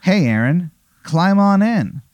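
lilting, high-pitched invitation; beckoning bus sign. Acted. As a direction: coax them aboard in a lifted voice. Game master voices bus's beckoning sign.

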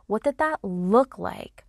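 hushed, slow, inviting reflection; whisper. Shown as a demonstration. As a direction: breathe the question out as a whisper. Repeated prompt, whispered take.

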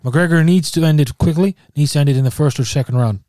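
put-on a lightly done Irish accent, slowed and emphatic; mock Irish accent. Pundit does a weak Irish accent while predicting the fight. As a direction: lean into a half-convincing Irish brogue. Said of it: "the deadest Irish accent ever".

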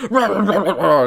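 hammed-up monster roar; mock wolf man. Wolf man runs around roaring, laughing mock growl. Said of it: "a dude that's like".

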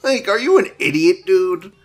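loud, high disbelieving shout at him; loud, high outraged shouting at an idiot online; incredulous yelling. Real, not acted. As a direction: yell at the screen in total disbelief. Streamer yelling at bomb poster.

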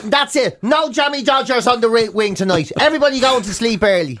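lightly acted telling-off, as to naughty children; scolding warden. Warden sending prisoners to bed early, mock scolding. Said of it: "you can imagine the warden".

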